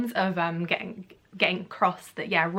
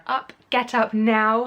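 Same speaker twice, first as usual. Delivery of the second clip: lightly voiced wake-up call, slow and louder; Petunia; 2 semitones higher, 5 dB louder, slower than usual. Aunt waking Harry in the cupboard, lightly acted sharp call. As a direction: mildly imitate an impatient order to get up. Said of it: "from Petunia".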